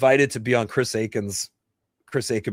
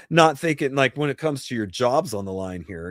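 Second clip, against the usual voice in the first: ordinary talk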